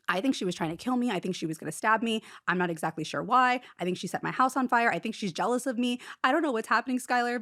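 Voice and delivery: 말이 빠르게 쏟아지는 다급한 고백; rushed blurting. Retold or imitated. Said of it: "that's literally how I'm telling him".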